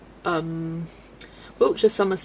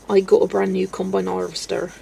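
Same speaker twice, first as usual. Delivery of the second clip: lightly put-on West Country farmer accent; a touch of rural South West farmer. Shown as a demonstration. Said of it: "colloquially known as the farmer accent".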